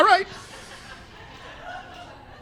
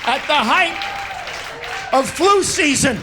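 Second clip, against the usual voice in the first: ranting; 3 semitones higher than usual. Acted. Comic rants about seventies childhood.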